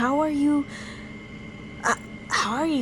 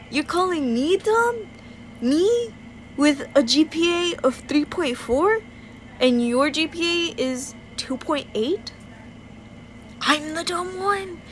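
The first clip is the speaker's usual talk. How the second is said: higher, offended questions; indignant disbelief; 3 semitones higher than usual. Real, not acted. Comparing GPAs with the cousin who called her dumb, indignant. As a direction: throw his insult back at him.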